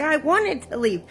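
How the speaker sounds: high-pitched exasperated insistence; insistent protest. Retold or imitated. Woman answering the prayer group that doubts her, exasperated protest.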